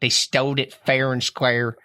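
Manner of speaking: drawn-out parody of "stole it" as "stoled it"; mocking mispronunciation. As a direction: slowly mimic the botched "stole it". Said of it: "pronounce English words".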